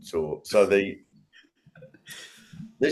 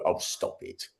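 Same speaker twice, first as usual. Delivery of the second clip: soft self-talk; 7 dB quieter than usual. Retold or imitated. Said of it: "I consciously go".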